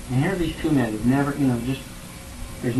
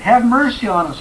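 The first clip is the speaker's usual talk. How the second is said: loud, high pleading cry; 8 semitones higher, 5 dB louder than usual. A narrator's reading. Blind men calling louder to Jesus, a loud pleading cry. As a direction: call out louder, desperate for help. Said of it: "they cried out even more".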